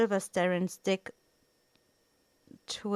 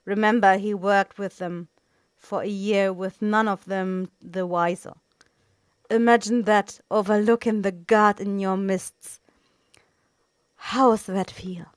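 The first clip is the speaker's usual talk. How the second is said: taunting; 6 dB louder than usual. Acted. Assassin taunting the agent.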